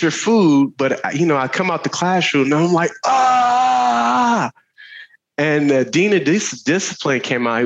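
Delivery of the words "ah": loud, high joyful yell. Retold or imitated. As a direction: shout coming out of class like a released kid. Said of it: "yelling at the top of your lungs".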